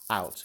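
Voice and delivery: unvoiced breathy sigh on out; silent sigh. Shown as a demonstration. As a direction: let the air out without voice. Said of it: "you're just gonna do it silently".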